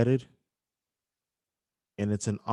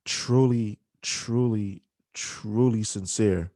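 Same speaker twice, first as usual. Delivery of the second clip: getting emotional; slower than usual. Real, not acted. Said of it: "I'm sorry, um, that I'm getting emotional".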